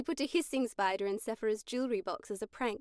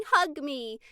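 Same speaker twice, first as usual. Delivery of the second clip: doll yelling; 3 semitones higher, 5 dB louder than usual. Retold or imitated.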